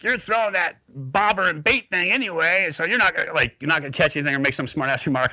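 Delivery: high, teasing taunt; mocking jab. Craig taunting about bait fishing, high and teasing. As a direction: needle him about the bobber. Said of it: "He's like".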